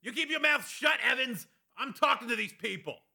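very high, strained angry yell, volume held back; thundering anger. A narrator's reading. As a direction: lash out at the guard, pitched right up. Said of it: "Kavanaugh thundered".

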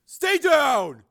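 high, loud sharp order; warning. A narrator's reading. Crazed brother to Frank, loud warning. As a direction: warn him off forcefully. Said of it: "Joe warned".

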